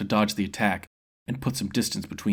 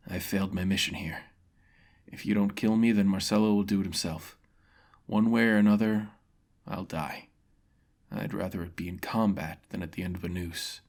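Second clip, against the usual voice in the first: a beaten man accepting death; solemn swordsman conceding defeat; defeated mercenary. Acted.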